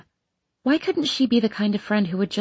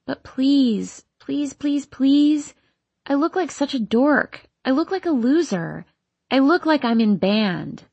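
pleading; 5 semitones higher than usual. Acted. Teen begging her parents.

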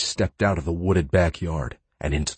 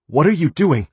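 high, loud startled cry of a dragged woman; alarmed young woman; 10 semitones higher, 7 dB louder than usual. Acted. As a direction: voice her shocked and high. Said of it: "she asked".

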